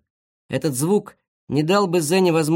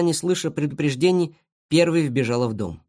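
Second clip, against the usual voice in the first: plain reading voice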